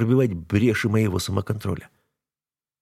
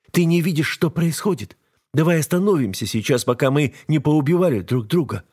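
higher woman's voice, urgent; wife begging husband to stop the fight; wife's voice, pleading; 7 semitones higher than usual. A narrator's reading.

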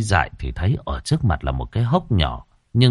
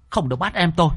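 sharp, higher angry cry; angry shout; 8 semitones higher, faster than usual. Acted. Ghost girl shouting to protect her brother, angry. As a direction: snap at her to leave the little brother alone. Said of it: "Giận dữ nhìn về phía cô mà quát".

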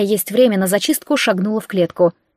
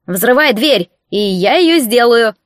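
fired-up battle call; 4 dB louder, slower than usual. Acted. Raccoon's fierce battle call.

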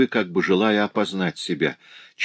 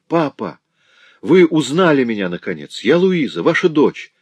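high, loud, emotional outburst; crying out; 5 semitones higher, 5 dB louder than usual. A narrator's reading. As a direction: cry out to your father with rising emotion. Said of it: "вскричала она, заливаясь слезами".

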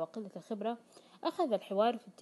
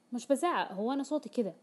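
raised voice; 2 semitones higher, 4 dB louder than usual. Retold or imitated. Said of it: "ويقولها بصوت عال".

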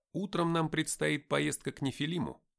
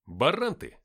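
louder, irritated retort; snapping back; 3 semitones higher, 6 dB louder, slower than usual. A narrator's reading. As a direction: snap it back at him. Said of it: "огрызнулся я". (огрызаясь)

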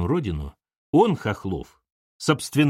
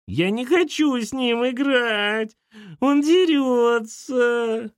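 put-on high, very slow child's whine; a sulky little girl dragging every word; whiny little girl; 11 semitones higher, much slower than usual. A narrator's reading. Girl refuses to play with brother, high slow whine.

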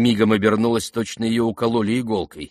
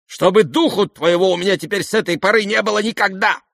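pale with rage; 10 semitones higher, 5 dB louder than usual. Acted. Lizaveta forbidding the prince her house, furious. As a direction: banish him in white fury. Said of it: "побледнев от гнева".

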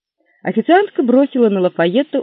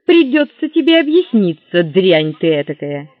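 angry husband; 6 dB louder than usual. Acted. Jealous husband scolds.

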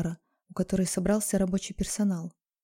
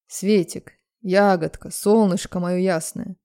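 sweet-talking; 6 dB louder, slower than usual. Acted. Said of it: "Распелся тут, как кот мартовский".

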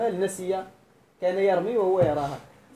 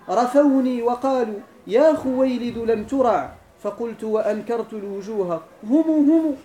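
slow, measured verse chanting; drawn-out classical verse; poem recital; slower than usual. Shown as a demonstration.

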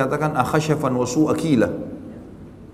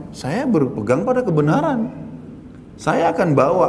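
higher-pitched retold self-defence; firm insistence; 4 semitones higher than usual. Driver answers stubborn accusers after a crash, firmly insistent. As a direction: stand your ground without shouting.

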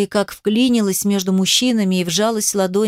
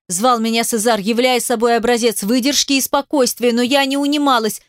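ordinary delivery, nothing marked

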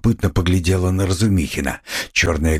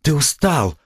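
gentle, high-pitched concession; meek; 9 semitones higher than usual. A narrator's reading. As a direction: soften it into a meek, high-voiced excuse. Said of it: "кротко сказала она".

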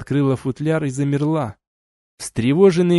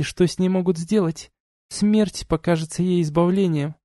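duchess voiced higher, cool and lecturing; stern duchess; 7 semitones higher than usual. A narrator's reading. Duchess reproaching the couple, cool and lecturing. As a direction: scold them like a haughty duchess. Duchess lists their grim future.

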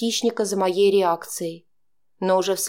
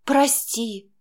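choking on tears; 3 semitones higher than usual. A narrator's reading. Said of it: "захлебнулась я".

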